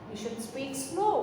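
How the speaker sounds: very slow, stretched sentence; slow dictation. Shown as a demonstration. Teacher dictating sentence slowly to students. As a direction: say it slowly so they can write.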